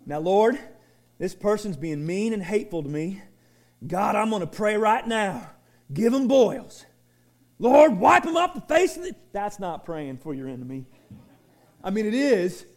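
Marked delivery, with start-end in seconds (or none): 3.9-9.1 mock vengeful prayer.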